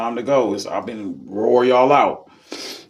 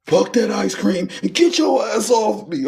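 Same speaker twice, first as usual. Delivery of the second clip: mock drunk; 10 semitones higher than usual. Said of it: "You this nigga drunk".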